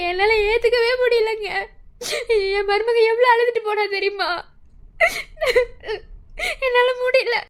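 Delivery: tearful, voice catching on the words; weeping. Acted. Mother weeping to her husband over the daughter-in-law who left. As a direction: plead through tears, words breaking.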